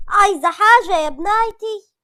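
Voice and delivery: high, slow, anxious question; worried, sad Nagia. A narrator's reading. Mother in tears asks her daughter, worried and sad. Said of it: "ناجية بقلق وحزن قالت لها".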